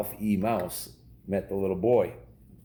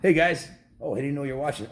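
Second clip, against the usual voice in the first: bright, loud greeting to the camera, pitched up; mock surprise; 4 semitones higher, 4 dB louder than usual. Dad spots the camera and greets viewers, mock surprised. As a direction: act caught off guard by the viewers.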